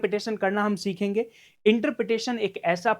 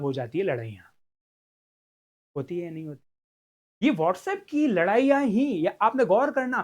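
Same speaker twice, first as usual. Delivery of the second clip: ordinary delivery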